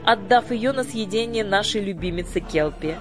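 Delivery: high, commanding fairy-queen voice; imperious sorceress. A narrator's reading. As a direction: proclaim it from the throne. Lady Batp speech.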